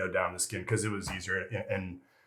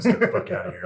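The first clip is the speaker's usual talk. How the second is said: loud, high-pitched mock yell; retold dismissal; 13 semitones higher, 8 dB louder than usual. Boss sends the new airman out, mock yell. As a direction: throw them out with a raised, pitched-up voice.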